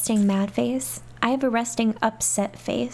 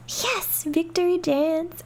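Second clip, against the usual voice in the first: happy cheer; 7 semitones higher, slower than usual. Real, not acted. Celebrating the win.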